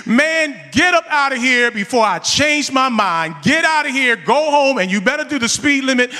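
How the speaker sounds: loud, stern let-off; gruff dismissal. Retold or imitated. Officer sending the teen home, loud and stern. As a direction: shoo him away, firm but letting him go.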